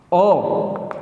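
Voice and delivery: ओ as a pure opening vowel, no H; teacher sounding out ओ alone; isolated O sound. Shown as a demonstration. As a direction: demonstrate the sound ओ by itself. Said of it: "ये ओ की आवाज़ निकलेगी".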